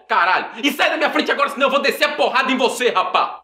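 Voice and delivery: heated, nonstop comic tirade; pissed-off rant. Acted. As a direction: lay into him with threats, no let-up. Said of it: "nunca fiquei tão pistola".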